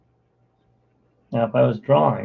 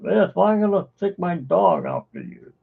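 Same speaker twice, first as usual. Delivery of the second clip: put-on cranky old neighbor; 6 semitones higher than usual. Cartoon old man yelling at kids to get off his lawn. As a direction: yell like a grumpy old man shooing kids away. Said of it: "I can do their stupid voices".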